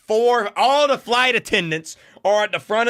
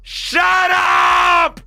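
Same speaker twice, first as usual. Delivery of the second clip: very high, loud imitation of a child; squeaky eight-year-old kid yelling; 13 semitones higher, 5 dB louder than usual. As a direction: screech it like a fed-up kid. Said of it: "imagine a squeaky eight-year-old kid".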